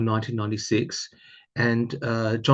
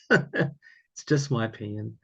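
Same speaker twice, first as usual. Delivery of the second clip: drawn out for emphasis; slow and deliberate; slower than usual. Real, not acted. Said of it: "And it's just my opinion".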